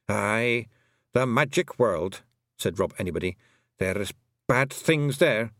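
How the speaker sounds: Scots pixie, slow and ominous; slow grave Feegle. Acted. Rob Anybody tells Tiffany of the magic world, slow ominous Scots. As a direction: let the dread sink in, Scots burr.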